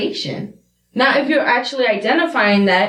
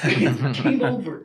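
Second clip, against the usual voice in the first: lower, slow, laughing through the words; laughing repeat; 8 semitones lower, much slower than usual. Real, not acted. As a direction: chuckle it out low and slow.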